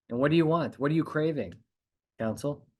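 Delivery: ordinary delivery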